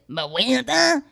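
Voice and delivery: mock-yearning "Muh-wanda" for "Miranda"; silly mispronounced name. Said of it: "Don't say it like that".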